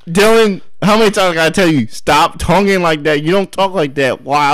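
scolding dad. Acted. Father scolds Dylan at dinner, exasperated. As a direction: play a dad fed up with his son.

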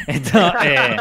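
laughing through a filler word. Real, not acted. Guest laughing at his own joke about Lavapiés bars. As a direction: giggle as you restart the sentence.

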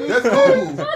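high-pitched laughing squeal. Real, not acted. Laughing at his own impression.

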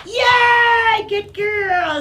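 high, loud cheer; squealed, gushing approval; over-the-top praise. Real, not acted. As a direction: celebrate the dog's success. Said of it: "over-praise her with my".

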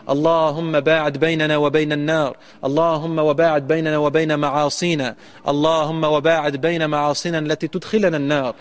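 chanted Arabic supplication, steady and earnest; fervent prayer. Real, not acted. The preacher leads the congregation in fervent closing prayer. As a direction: plead for protection from the fire.

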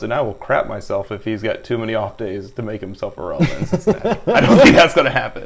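chuckling while making the joke; laughing. Real, not acted. Laughing while joking about benching.

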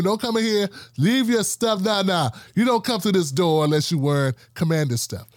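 mock stern order, pitch easing down at the end; stern gatekeeper. Stadium worker turning away a vendor in rival colors, stern.

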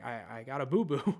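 put-on a kid whimpering about a scrape; mock childish whine with a crying edge; whiny little boy. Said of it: "I'm just crying".

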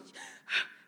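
mock gasp for air; imitated breathless gasp. Daughter imitating mom on oxygen in shower, breathless gasp. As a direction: gasp like someone short of oxygen. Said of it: "she could hardly breathe".

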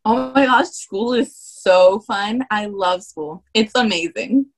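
gushing mock enthusiasm, stretched out; sarcastic. Shown as a demonstration. The speaker trying out a sarcastic tone on request, sarcastic. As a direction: fake delight with a drawn-out "so fun". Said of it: "Okay, I'll try then".

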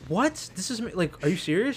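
high incredulous voice; disbelieving. Retold or imitated. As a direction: pitch it up in disbelief. Disbelief at breakup, retold.

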